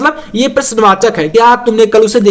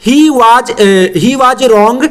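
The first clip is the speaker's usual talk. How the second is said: slow dictation; much slower than usual. Shown as a demonstration. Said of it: "teacher dictates sentence slowly".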